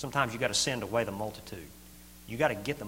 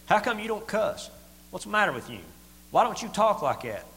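mock kids; 8 semitones higher than usual. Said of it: "and they say".

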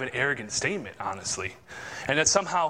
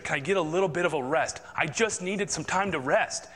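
higher-pitched, fed-up complaint to the Lord; exasperated disciples; 4 semitones higher than usual. Acted. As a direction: vent like a worn-out rower who has had enough.

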